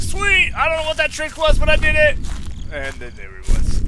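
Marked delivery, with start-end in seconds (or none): 0.0-2.2 high, fast, gleeful retelling; imitating his own delighted cheer; retold glee. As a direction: relive the lucky escape. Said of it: "I was like".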